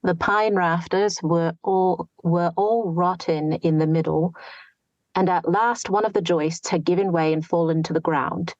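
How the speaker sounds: a light New Standard English accent, a touch of nasality; reading in target accent. Shown as a demonstration. Reads passage in target accent.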